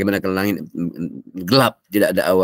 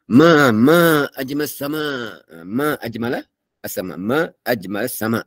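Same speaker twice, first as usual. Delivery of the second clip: retold shout; 3 semitones higher, slower than usual. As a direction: call out in wonder at the stars. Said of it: "Dia menjerit kuat".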